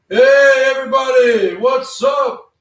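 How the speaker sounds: loud, high hype intro; hyped greeting. Acted. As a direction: greet them like a hype man.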